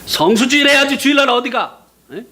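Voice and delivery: a hint of a scolding pastor, with a laugh; mocking the pastor. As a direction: tease the pastor's threats. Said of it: "이러면서 이제". (목사님 꾸중을 웃으며 흉내)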